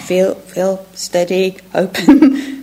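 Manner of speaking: laughing through a self-calming mantra; mock mindful, laughing. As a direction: poke fun at your own calm-down instructions. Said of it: "so I was like, being mindful".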